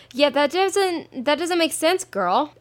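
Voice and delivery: high, drawn-out disbelieving sass; slow, high sassy disbelief; incredulous sass. Acted. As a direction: tell your friend she makes no sense. Incredulous reply to the question.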